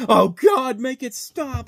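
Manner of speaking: high, loud start that drops off; half-hearted imitation of a scream; mild mock scream. Retelling a funny movie scene with a mock scream. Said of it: "you just hear Steve Zahn just screaming at the top of his lungs".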